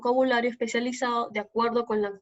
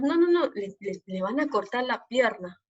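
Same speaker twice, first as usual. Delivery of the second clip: alarmed everyday speech. Shown as a demonstration. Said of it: "nosotros tal vez diríamos".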